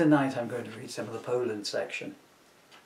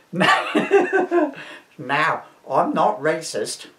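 Mrs Elsie Racist voice; 5 semitones higher, 8 dB louder, much slower than usual. Acted. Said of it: "said Missus Elsie Racist".

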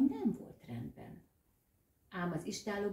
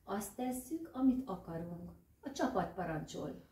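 rasping rat. Acted. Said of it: "Csikorgott most már élesebben a patkány".

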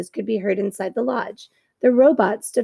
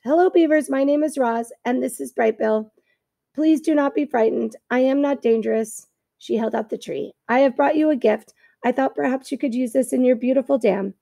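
raised, careful robot speaking politely; calm, courteous robot reading each word; 2 semitones higher than usual. Acted. Reads the robot Roz's lines.

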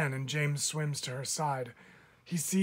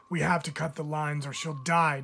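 louder urgent shout to the crew; 5 dB louder than usual. Acted. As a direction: shout it over the boat's noise. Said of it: "James shouts".

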